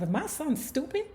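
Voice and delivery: put-on a mother chewing out her boy; Mother Gordy scolding. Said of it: "she like saying to herself".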